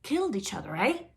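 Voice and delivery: chuckling. Acted. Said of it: "the troll chuckled".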